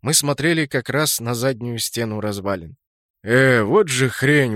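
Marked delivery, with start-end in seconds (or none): 3.2-4.5 slow, drawn-out indignant outburst. Acted. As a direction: complain in disbelief, dragging it out. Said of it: "возмутился Кракен".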